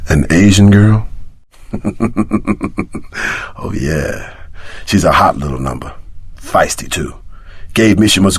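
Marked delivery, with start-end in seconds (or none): 1.7-3.5 laugh. Acted. Laughing about the girl.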